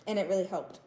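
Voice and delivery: usual speaking voice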